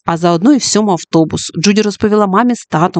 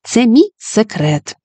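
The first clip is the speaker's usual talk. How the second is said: smiling; 3 semitones higher than usual. Acted. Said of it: "усміхнулася Джуді".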